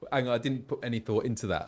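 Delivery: ordinary talk, nothing marked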